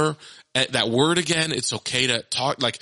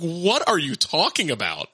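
higher, incredulous question; baffled dad; 5 semitones higher than usual. Retold or imitated. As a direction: ask in mock bewilderment. Baffled dad questioning his daughter.

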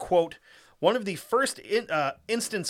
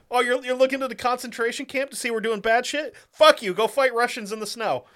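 loud indignant imitated officer; angry; 6 semitones higher, 4 dB louder than usual. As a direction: snap it like an outraged officer. Voicing angry SS reaction.

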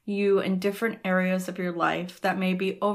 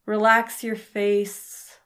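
calm, unhurried meditation voice with pauses between phrases; guided meditation. Acted. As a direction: guide the listener gently into rest, phrase by phrase. Leads a Yoga Nidra meditation.

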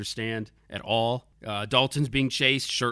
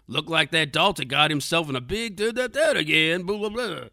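mock Dukes narrator; 5 semitones higher, 3 dB louder than usual. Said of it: "that guy to narrate".

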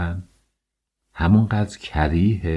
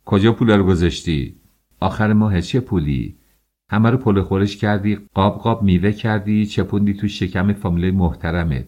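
shouting. Acted. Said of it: "فریاد زد".

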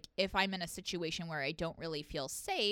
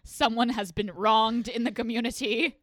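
loud, grand town-crier announcement; mock proclamation; 8 dB louder than usual. Comic mocking men's outrage, loud pompous proclamation. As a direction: proclaim the injustice with hammed-up gravity. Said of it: "when a guy does it, it's like".

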